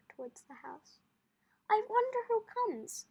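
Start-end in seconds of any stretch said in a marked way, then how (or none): 1.7-3.1 put-on higher, louder curious boy; exclaimed. Kino spotting a light on the path, exclaiming. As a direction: exclaim it up high. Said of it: "Kino exclaimed".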